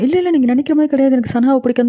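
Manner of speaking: mildly acted agitated denial; tense denial. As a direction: imitate someone tensely denying it. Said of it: "தாலுக்கு செம tension வரும்".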